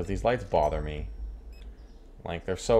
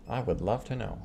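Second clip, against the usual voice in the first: softer muttered echo; quiet repeat; 5 dB quieter than usual. Acted. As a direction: say it again under your breath.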